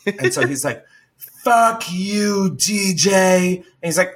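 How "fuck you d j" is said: high-pitched mock yell; imitated angry outburst; retold berating. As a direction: berate the boss in a raised pitch. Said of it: "fucking berating our C E O".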